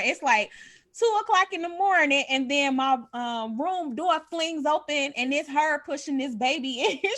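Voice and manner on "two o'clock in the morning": stressed, higher and louder; emphatic. Real, not acted. Telling the late-night story with emphasis. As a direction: hit the hour hard.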